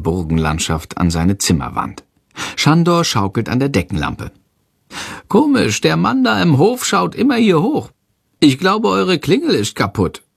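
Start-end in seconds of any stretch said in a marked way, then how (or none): 5.3-10.2 very high little creature voice; agitated, high-pitched creature alert; creature calling out. A narrator's reading. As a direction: call out in a high squeaky voice. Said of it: "ruft Shandor".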